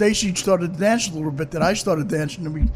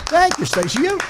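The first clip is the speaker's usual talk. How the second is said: posh English voice; 8 semitones higher than usual. Pretend. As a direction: ham up a prim English toff. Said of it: "That's lovely, Mike, lovely".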